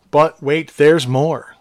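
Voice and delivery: hammed-up pitchman hype; infomercial. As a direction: sell it like a late-night ad. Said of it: "I feel like I'm doing an infomercial".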